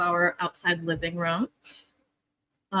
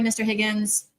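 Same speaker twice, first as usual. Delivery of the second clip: normal talking voice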